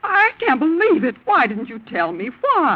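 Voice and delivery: high, slow shocked cry; shocked disbelief. Acted. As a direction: gasp it out in disbelief. Mother shocked by sudden marriage.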